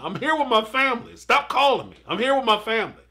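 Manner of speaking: a hint of a man waving off the call; lightly mimicking a dismissive husband; mock husband voice. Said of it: "basically what he was telling her".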